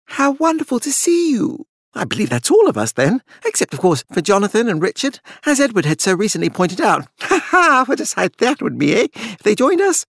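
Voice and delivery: high, jovial overdone voice; grating cheer. Acted. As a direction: play the hearty, forced host. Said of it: "Charles' grating cheer".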